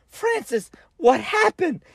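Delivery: high, worried mother calling out; mom's panicked voice. Retold or imitated. Mom running out to her crying son, high and worried. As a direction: cry out like a scared mom.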